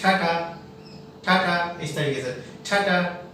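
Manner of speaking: "ठाठा" with both t sounds lightly aspirated; soft aspirated T. Shown as a demonstration. Teacher drills students on T, soft aspiration. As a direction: keep "ठाठा" soft, t-haa t-haa. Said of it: "मतलब soft".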